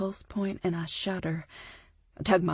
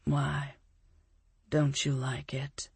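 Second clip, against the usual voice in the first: silky whisper; 3 semitones lower, slower than usual. A narrator's reading. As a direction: tease her in a hushed, smooth voice. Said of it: "he asks silkily".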